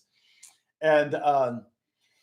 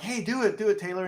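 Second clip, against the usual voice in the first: coaxing Justin; 6 semitones higher than usual. Retold or imitated. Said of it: "And Justin's like".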